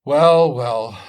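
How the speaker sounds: a loud, bright well well; hearty loud exclamation. Acted. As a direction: call it out boldly. Jack exclaiming in story.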